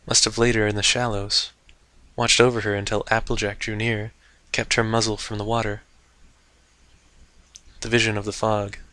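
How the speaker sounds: steady, calm reading voice; story narration. A narrator's reading. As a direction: read the tale evenly. Narrating the chapter.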